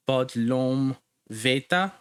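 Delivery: bodlom veta spoken slowly, stress on ve of veta; drawn-out teaching pronunciation of bodlom veta; slow careful pronunciation. Shown as a demonstration. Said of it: "emphasis ... on the second last syllable".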